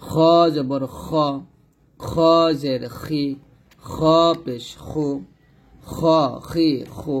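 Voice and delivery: full throaty fricative in "খ, খি, খু"; thick, heavy "খ". Shown as a demonstration. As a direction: recite "খ" rounded and scraped from the throat. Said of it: "খটা মোটা করে উচ্চারণ হবে".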